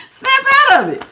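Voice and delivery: high, sharp snap out of it; mock wake-up call. Reader pretends to shake her viewer, high and sharp. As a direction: jolt them awake, pitched high. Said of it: "I wish I could really just be like".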